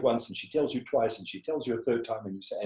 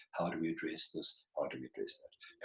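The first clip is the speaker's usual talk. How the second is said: calm adult tone; 7 semitones lower, 11 dB quieter than usual. Shown as a demonstration. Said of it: "but you go up to adult".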